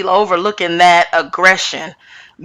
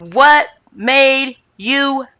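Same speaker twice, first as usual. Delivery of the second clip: slow, emphatic mock yell; imitated yell; 3 semitones higher, slower than usual. Retelling Rinna demanding an answer from Sutton, mildly mock yelling. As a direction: act out a measured yell, word by word. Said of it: "Rinna yells and says".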